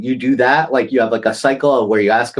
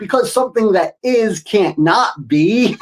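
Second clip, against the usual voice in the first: giggling out the parent's answer; laughing at the absurd answer; laughing through it; 8 semitones higher, slower than usual. Real, not acted. Parent laughing while answering the kid's whys.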